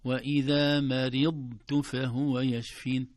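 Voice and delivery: "مرضت" recited slow and loud, holding ض before a separate ت; distinct dad. Shown as a demonstration. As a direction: recite "مرضت" with a held, heavy ض, no bounce. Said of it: "تسمعون صوت الضاد؟". («مرضت» بإظهار الضاد مطبقة دون قلقلة)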